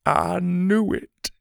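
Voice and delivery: slow, high delighted murmur; old man delighted by a hunch; grinning. A narrator's reading. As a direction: say it with a grin. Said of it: "he grinned".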